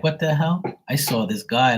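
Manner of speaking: mildly startled, high-pitched question; voiced puzzled dog. Owner speaks for her dog who saw someone, mildly startled. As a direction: jump up in pitch, lightly puzzled.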